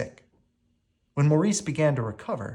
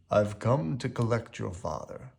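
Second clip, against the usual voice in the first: cold official; 4 dB quieter than usual. A narrator's reading. Asylum director's cold line.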